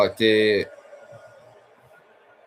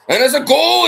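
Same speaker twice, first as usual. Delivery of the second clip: screaming GOAL, much higher and louder; goal call; 13 dB louder than usual. Acted. Commentator roaring a goal for Hibs at full volume.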